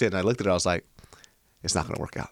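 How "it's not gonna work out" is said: stifled laugh while speaking; half-laughing breakup line; laughing through the words. Retold or imitated.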